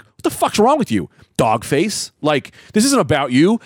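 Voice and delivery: mock-furious challenge to a heckler; mildly acted outrage; retold fury. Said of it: "and I get furious".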